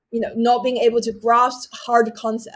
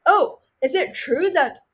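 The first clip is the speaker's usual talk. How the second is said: put-on higher-pitched, wondering child's question; naive question; 3 semitones higher than usual. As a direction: ask it like a curious kid testing an idea. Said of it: "And asking stupid questions".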